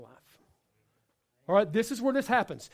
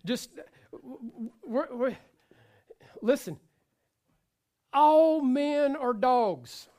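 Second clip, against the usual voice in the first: mock exasperated declaration; 3 semitones higher, slower than usual. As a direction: stretch out every word as a hammed-up grievance. Acting a fed-up single woman.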